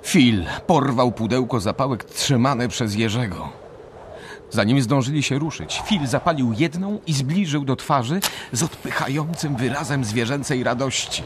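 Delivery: ordinary talk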